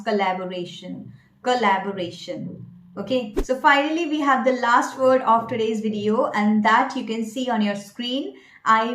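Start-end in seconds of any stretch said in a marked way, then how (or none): 0.0-2.7 "collaboration" as kuh-LAB-o-ray-shun; correct pronunciation. Shown as a demonstration. Coach modelling the word, correct pronunciation. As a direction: say "collaboration" with a weak first syllable, kuh. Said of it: "the same way you may pronounce".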